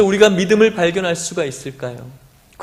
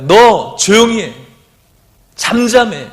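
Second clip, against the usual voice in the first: slow, louder scolding hush; rebuking crowd; 4 semitones higher, 6 dB louder, slower than usual. Acted. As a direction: tell him to shut up, sternly. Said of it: "꾸짖어서".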